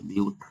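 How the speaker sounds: ब्यूट said as one clipped syllable, no i after it; first syllable alone. Shown as a demonstration. Teacher splitting the word for students, syllable by syllable. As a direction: cut ब्यूट off clean before the ending. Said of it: "आई नहीं पढ़ते हैं".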